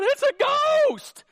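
high, loud, stretched-out exclamation; terrified cry. Acted. Pastor replaying disciples' fear at the sight, terrified cry. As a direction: cry out in dramatized fright. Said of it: "Notice the exclamation point".

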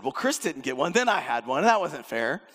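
a lightly imitated sister's whine; half-hearted whiny complaint to the parents; mild mock whine. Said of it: "she whined and said".

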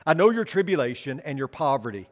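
solemn reading from the pulpit; scripture reading. Acted. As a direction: read the verses out to the congregation. Reads scripture passage aloud.

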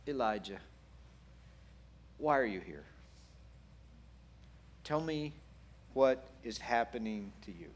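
gentle, unhurried asking, with pauses; low, tender questioning; gentle whisper. Acted. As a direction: invite them softly to open up. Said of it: "the stage of the gentle whisper".

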